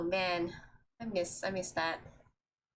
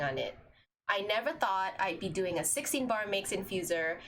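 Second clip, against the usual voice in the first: Stork voice. Shown as a demonstration. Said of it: "this is Stork's voice".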